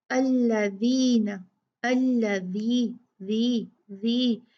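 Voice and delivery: says "अल्लज़ीना" with the tongue tip at the front teeth; correct dhal. Shown as a demonstration. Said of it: "जुबान की नोक को ... दांतों से लगाया". ("अल्लज़ीना" में जीभ की नोक दांतों पर रखकर नरम th)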